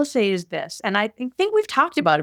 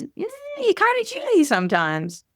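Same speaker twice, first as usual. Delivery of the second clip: inner critic voice; 14 semitones higher than usual. Retold or imitated. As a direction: play the snide voice in your head. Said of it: "But the voice in your head is".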